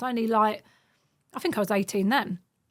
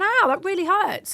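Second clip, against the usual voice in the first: mock pained whine; 9 semitones higher, 3 dB louder than usual. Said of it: "and I'm going".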